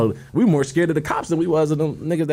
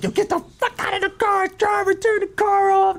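mock police command. Retelling police ordering them out of the car, high mock command. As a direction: bark it high like a cop, without full volume.

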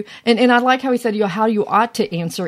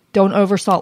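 ordinary delivery

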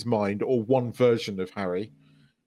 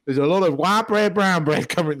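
put-on a failed try at a South African accent that slips toward American; jokey mock South African accent that breaks into a laugh; bad South African accent; 4 semitones higher, 3 dB louder than usual. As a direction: put on South African vowels in "bread", badly. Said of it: "really bad, um, South African accent".

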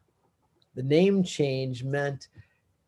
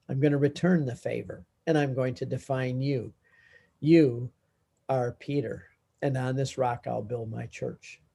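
softer, gentle voice leaning in close; tender Jesus; 3 semitones lower, 6 dB quieter than usual. Acted. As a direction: speak it kindly, like returning a favour. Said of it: "Jesus smiles and leans into Peter".

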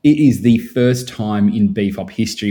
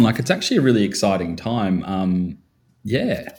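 real lack of enthusiasm; unconvincingly excited; 3 dB quieter than usual. Real, not acted. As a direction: claim excitement with little energy behind it. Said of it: "you sound so excited, mate".

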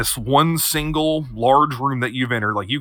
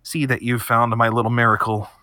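quiet nasal voice. Acted. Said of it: "this quiet, kinda nasally voice goes".

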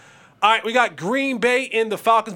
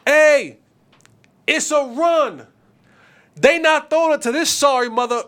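loud and higher, calling across the field; retold shout; 8 semitones higher, 6 dB louder than usual. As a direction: defender shouting to his teammates that it's a run, loud and high. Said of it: "he starts shouting to his other team".

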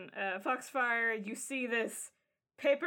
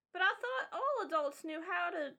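lightly voiced child, growing quiet and apologetic; naive kid; 4 dB quieter than usual. Kid apologizes to the adult for the remark, sheepish child voice. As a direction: start puzzled, sink into a soft, sheepish apology.

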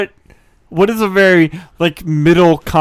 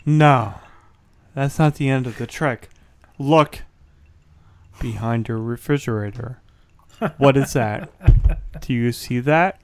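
card magician patter; 3 semitones lower, 5 dB quieter than usual. Acted. Magician character continues trick.

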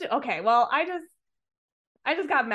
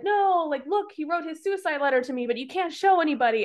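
acted protest; 6 semitones higher than usual. Acts Evan protesting to class president.

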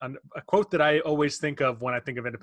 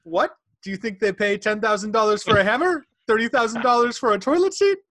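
scoffing Julius; 7 semitones higher, 6 dB louder than usual. Retold or imitated. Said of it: "little Julius Levinson's like".

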